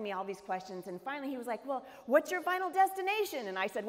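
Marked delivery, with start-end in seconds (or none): 1.6-3.5 cheery question. Retold or imitated. Seatmate's cheerful probing question.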